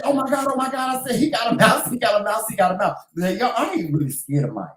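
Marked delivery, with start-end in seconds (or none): 0.0-3.0 retold panic, replaying the alarm; girlish panic. Wife re-enacting her run into the room, high mock panic. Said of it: "like a little girl".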